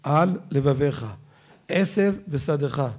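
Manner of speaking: slow, על held apart from לבביך, עשב from בשדך; words kept apart. Shown as a demonstration. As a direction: draw out על and עשב, separating each from the next word. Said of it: "צריכים להבדיל". (להפריד לאט בין על ל-לבביך ובין עשב ל-בשדך)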